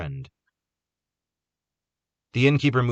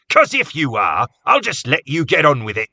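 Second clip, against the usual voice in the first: sarcastic; 7 semitones higher, 9 dB louder than usual. A narrator's reading. Cobb's sarcastic challenge to Jake.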